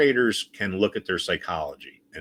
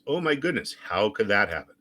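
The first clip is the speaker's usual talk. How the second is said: mock shock. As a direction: play dumb, fake astonishment. Sarcastic fake shock at pattern.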